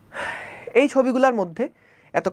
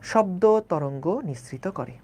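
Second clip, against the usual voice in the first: slow emphatic repeat; 3 semitones lower, slower than usual. Shown as a demonstration. Teacher repeats the phrase slowly.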